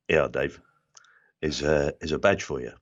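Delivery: put-on whispered South London, accent slipping through; slipped South London accent. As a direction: drop into his Bermondsey roots, hushed. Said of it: "my accent had completely slipped".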